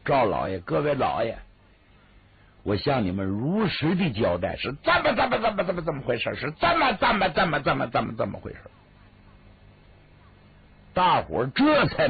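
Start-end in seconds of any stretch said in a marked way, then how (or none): 0.0-8.6 choked, stammering through the tears; tearful confession. Acted. 魏六向赵老爷如实交代，stammering and tearful. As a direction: keep tripping over the words, close to crying. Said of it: "眼泪掉下来了".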